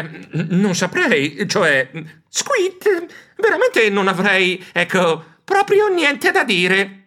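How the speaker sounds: slow hesitant stammer; high squeaky nervous hedging; flustered. Acted. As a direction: stumble over it, embarrassed. Flustered on live air.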